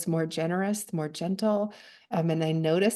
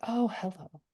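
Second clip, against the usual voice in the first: gentle greeting; 2 semitones higher, 5 dB quieter than usual. Shown as a demonstration. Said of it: "it just saying".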